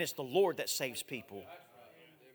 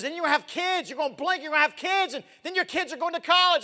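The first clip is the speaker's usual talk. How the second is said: dad's warning; 11 semitones higher, 8 dB louder than usual. Retold or imitated. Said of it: "He goes".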